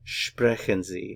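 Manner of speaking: "Sprechen Sie" slowly, rising at the end; measured learner's question, "Sprechen Sie" ending upward; question intonation. Shown as a demonstration. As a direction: ask "Sprechen Sie" with a lift on Sie. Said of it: "how Germans will ask a question".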